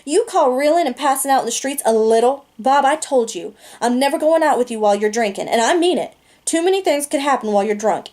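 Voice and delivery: put-on a girl scolding her drunk date, angry; mad. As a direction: tell him off, angry. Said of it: "Cherry looked mad".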